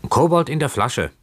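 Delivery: high, ringing call to the imp; calling into the bottle, pitched high. A narrator's reading. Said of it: "rief Keawe".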